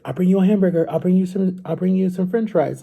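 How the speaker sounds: a hint of a brother coaxing with food. Brother bribing his little sibling to do chores, coaxing.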